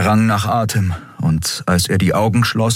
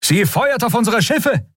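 alarmed report. Acted. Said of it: "meldete der Pilot".

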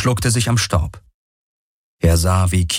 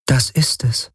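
raised, detached AI voice; higher, otherworldly voice of a calm machine; the Helix, a machine mind; 6 semitones higher than usual. Acted.

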